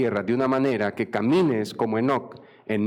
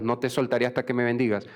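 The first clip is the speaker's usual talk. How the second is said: quick mock demand without raising the voice; arrogant shout, imitated; faster than usual. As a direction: rattle it off like a presumptuous demand. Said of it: "que le grita a Dios". (exigencia arrogante imitada, rápida y sin gritar)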